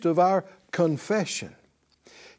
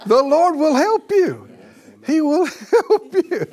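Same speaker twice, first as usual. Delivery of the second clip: laughing joyfully, higher and louder; 7 semitones higher, 5 dB louder than usual. Real, not acted. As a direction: laugh through the words with delight. Laughing through praise.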